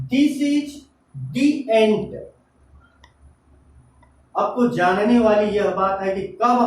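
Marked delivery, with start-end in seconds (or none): 1.3-2.1 the said "thee" before the vowel of ant. Shown as a demonstration. Teacher showing the before a vowel, said "thee". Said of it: "दी पढ़ते हैं।".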